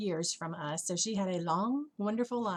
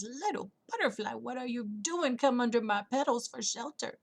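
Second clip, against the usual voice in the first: lightly voiced rose, higher and swooping; concerned flower; 4 semitones higher than usual. Red rose to a butterfly in rain, mildly concerned.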